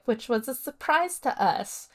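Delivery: negative, disapproving. Retold or imitated. Mom giving a speech about the French girlfriend, negative and disapproving. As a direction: make the surprise sound unwelcome. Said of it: "She, very negative".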